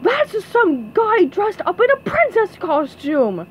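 loudly expose the impostor. A narrator's reading. Guy denouncing SpongeBob's costume, loud shout. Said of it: "with a very loud voice".

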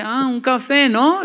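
esposa insinuante, más aguda; esposa pícara. Retold or imitated. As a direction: imita a la esposa con picardía, más aguda y alta. Esposa responde al café. (la esposa sospecha del café, voz pícara más aguda)

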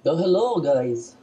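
loud, high, hammed-up Russian accent; attempted Russian accent. Showing a friend his poor Russian accent. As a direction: put on a bad Russian accent, pushed up loud. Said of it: "You try speaking in a Russian accent".

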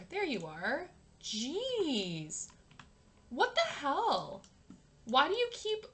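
exasperated, drawn-out complaint at him; exasperated scolding. Real, not acted. Player scolding the runaway date, exasperated. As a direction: scold him in disbelief, pitch jumping up. Scolding game character who keeps leaving.

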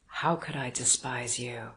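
lightly voiced Gurov, puzzled and kind; Gurov's voice. A narrator's reading.

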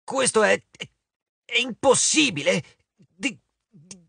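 a giant squeaking in panic; flustered squeak, voice jumping up; squeaky stammer. A narrator's reading. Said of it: "Il gigante emise una specie di squittio".

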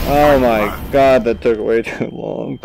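slow, loud exasperated groan; mock gamer rage. Real, not acted. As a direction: drag it out in frustrated mock rage. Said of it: "Gamer rage".

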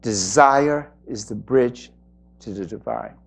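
slow, low, fading "Desire is the bridge to the divine"; slow emphatic repeat. Shown as a demonstration. Teacher repeats the line slowly to let it sink in. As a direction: lean into each word and let it fade. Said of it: "Think about that for a moment".

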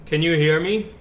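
echoing call audio. Real, not acted. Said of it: "We got an echo from you".

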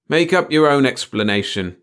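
ordinary delivery, nothing marked

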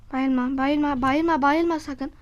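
loud urgent pleading; being chased. Real, not acted. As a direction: beg frantically, rising. Pleading as character collapses.

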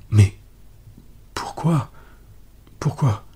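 choked, broken pourquoi; voix étranglée de rage, bégayante; stammering with rage. A narrator's reading. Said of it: "balbutia-t-il, suffoquant de rage".

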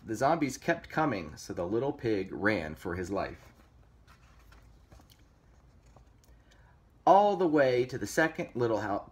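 lively storybook reading; story narration. A narrator's reading. Reader telling kids of pig versus zombies, story narration. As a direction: read it like a picture book.

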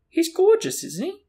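high, delighted gushing; glowing adoration. A narrator's reading. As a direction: gush proudly, starting very high.

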